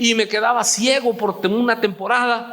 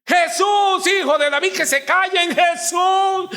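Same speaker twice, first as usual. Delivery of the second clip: high, insistent cry for Jesus; shouting; 8 semitones higher than usual. Acted. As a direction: shout over those trying to silence you. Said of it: "Y ellos gritaban".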